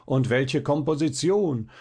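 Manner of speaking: one lone admirer starts the praise; single admiring call. Retold or imitated. Violinist mimics one listener calling out, mild admiration. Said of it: "Unterdessen ruft einer".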